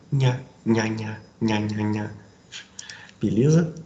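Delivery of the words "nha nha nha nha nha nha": "nha" repeated like a chant to stress the suffix; drilled suffix nha. Shown as a demonstration. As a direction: tap out "nha, nha" as a rhythm drill. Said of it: "o sufixo nha".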